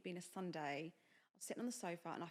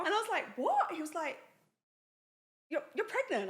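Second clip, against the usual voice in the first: laughing through real tears, higher and louder; getting emotional; 10 semitones higher, 9 dB louder than usual. Real, not acted. Telling a friend about the pregnancy news, teary laughter. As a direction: let the emotion break through as you retell it. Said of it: "I'm getting emotional".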